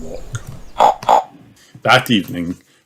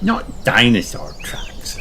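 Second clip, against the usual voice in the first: Peppa's voice; 2 semitones higher, slower than usual. Acted. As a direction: play the excited piglet. Peppa answers George.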